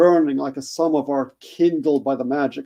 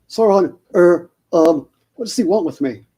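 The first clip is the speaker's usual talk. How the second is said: a hint of a nervous stammer, a bit higher; 3 semitones higher than usual. Frodo nervously stammers at Sauron's name. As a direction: falter over the name. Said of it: "stammered Frodo".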